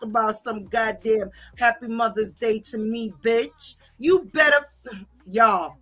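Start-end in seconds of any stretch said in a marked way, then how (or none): 4.0-4.6 angry shout. Real, not acted. Angry rant at the woman.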